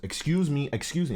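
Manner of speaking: mock polite call for attention; mom calling out.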